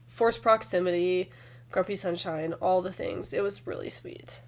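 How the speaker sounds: hoarse from a cold; sick voice. Real, not acted. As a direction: talk through a sore throat. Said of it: "my sick voice".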